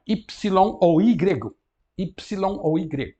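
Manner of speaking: slow "Y ou Y" comparing two names; letter name demo. Shown as a demonstration. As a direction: say the letter slowly two ways. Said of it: "dizemos Y". (demonstração lenta de "Y ou Y")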